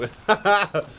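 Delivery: high, loud hammed-up Orlesian bard moans. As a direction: swoon like a mock Orlesian bard. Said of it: "He's used to saying words like".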